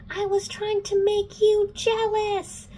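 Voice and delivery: high, slow, strained shout; mock yelling. Simon confessing to Clary in a quarrel, mock yelling. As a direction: act out an exasperated yell. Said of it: "He's, like, yelling now".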